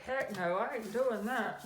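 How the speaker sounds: hammed-up flat-out no; defiant refusal. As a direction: bark it like a stubborn wife. Example of a rude wife.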